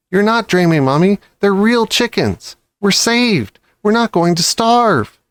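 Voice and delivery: high, eager insisting; excited child. A narrator's reading. Cub assuring his weak mother they're saved, high and eager. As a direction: convince her it's real.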